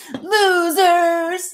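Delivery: put-on angry, loud, drawn-out yell. Reading an all-caps post aloud, mock all-caps shouting. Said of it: "I just wanna say it in that voice again".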